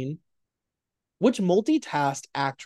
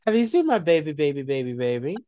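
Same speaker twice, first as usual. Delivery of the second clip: put-on town drunk. Mocks the drunk actress quote.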